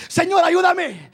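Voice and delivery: preacher mimicking a believer crying out to God; mock pleading cry. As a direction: plead like someone caught in temptation. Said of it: "gritándole".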